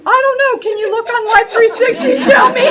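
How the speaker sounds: high, loud, laughing through the words; laughing at herself. Retold or imitated. Mom laughing to her daughter about being lost. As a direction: laugh at your own hopelessness.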